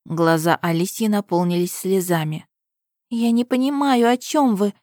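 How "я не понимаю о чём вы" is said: plaintive whisper. A narrator's reading. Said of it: "прошептала жалобно".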